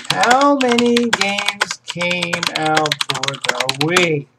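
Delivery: every word stretched long and even; absent-minded, very slow drone; slow drawn-out typing voice. Real, not acted. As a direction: spell it out slowly as you type. Reading out search while typing.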